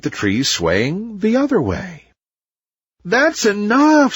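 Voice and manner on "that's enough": firm. A narrator's reading. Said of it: "said the copperpod tree".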